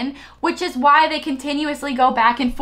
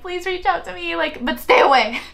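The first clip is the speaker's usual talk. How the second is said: mock pleading; 5 semitones higher than usual. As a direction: plead lightly in the absent person's voice. Voices the person's pleading message.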